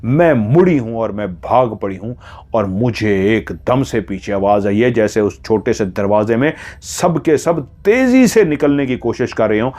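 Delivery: plain reading voice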